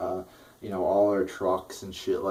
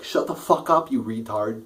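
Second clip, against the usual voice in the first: exasperated outburst; 3 semitones higher, 4 dB louder than usual. Real, not acted. Ranting at Christie's repeated story.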